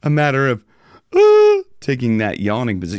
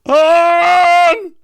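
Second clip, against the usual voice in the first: very high, slow, open yawn-like tone; 8 dB louder than usual. Shown as a demonstration. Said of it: "I can reach that with that yawning".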